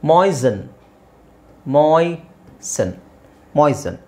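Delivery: "ಮಾಯ್ಸನ್" as "moy-sun", middle take stretched in syllables; silent T. Shown as a demonstration. Teacher modelling moisten for students, silent T. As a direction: say "ಮಾಯ್ಸನ್" without any T. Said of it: "So ಟಿ silent".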